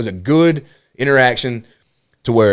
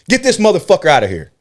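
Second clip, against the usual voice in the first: mock yell, pitched up; retold angry order; 8 semitones higher, 4 dB louder than usual. Comedian calling for a heckler's removal, mock outraged shout. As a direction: imitate a comic ordering a heckler thrown out.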